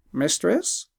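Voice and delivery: a lightly voiced wise bird; talking bird.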